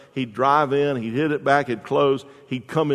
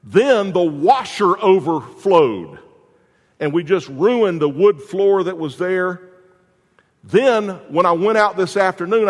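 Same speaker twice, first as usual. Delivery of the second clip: higher and louder, a frazzled rant; exasperated wife; 4 semitones higher, 4 dB louder than usual. Retold or imitated. Wife venting at her husband at the door, exasperated. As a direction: pile up every disaster of the day.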